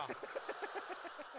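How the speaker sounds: soft, unvoiced rising laugh; airy laugh. Real, not acted. Fed up with the story, an airy rising laugh. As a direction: let out a breathy giggle.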